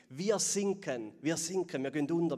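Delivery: sinking disciples crying out loud and scared; panicked. Acted. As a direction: drag out the first words in alarm. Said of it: "riefen sie aufgeregt".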